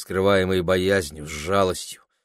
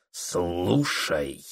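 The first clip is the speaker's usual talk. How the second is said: lower, softer, hoarse through gritted teeth; 3 semitones lower, 5 dB quieter than usual. A narrator's reading. Husband commanding his wife, hoarse through gritted teeth. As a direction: growl it through clenched teeth. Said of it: "хрипло говорил сквозь стиснутые зубы".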